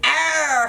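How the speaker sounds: howling cry as swept away; troll howl. Acted. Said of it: "howled the troll".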